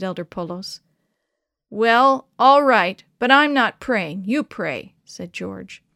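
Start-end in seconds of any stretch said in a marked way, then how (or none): 1.7-4.9 grudging. A narrator's reading. Grudging boy agreeing.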